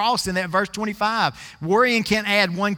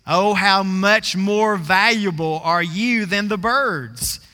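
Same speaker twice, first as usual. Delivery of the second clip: slow, drawn-out stress on "how much more"; emphatic reading; slower than usual. Shown as a demonstration. Preacher reading scripture to show its emphasis, slow and emphatic on "how much more". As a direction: stretch out "how much more" with real weight. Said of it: "Notice that real emphasis".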